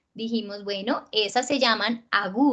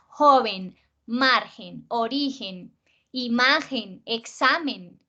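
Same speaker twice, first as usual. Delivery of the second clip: "joven", "margen", "origen" con JO, MAR, RI marcadas; fuerza en la penúltima; slower than usual. Shown as a demonstration. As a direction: enumera cargando MA en "imagen" y SA en "examen". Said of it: "acento, fuerza, en una sola sílaba". (lista de "joven" a "examen", cada penúltima acentuada)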